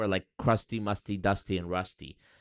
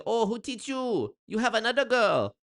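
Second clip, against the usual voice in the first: lightly voiced, higher suspicious girlfriend; jealous Thai date; 11 semitones higher than usual. Thai date suspecting another girl, higher mock jealousy. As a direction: accuse him playfully of another girl. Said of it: "they say".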